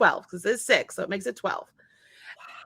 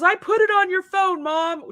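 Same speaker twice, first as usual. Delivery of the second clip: higher, lightly voiced son complaining; scolding teen; 8 semitones higher, 4 dB louder than usual. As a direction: nag like an annoyed teen. Quoting son exasperated.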